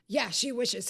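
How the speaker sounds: teasing brush-off. Retold or imitated. Man's teasing brush-off, retold.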